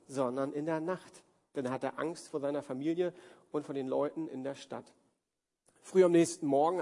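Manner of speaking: measured, deliberate Bible reading voice; scripture reading. Acted. Pastor reading Judges to the congregation, measured scripture reading. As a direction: read the passage out to the church, steady and clear. Pastor reads Gideon story aloud.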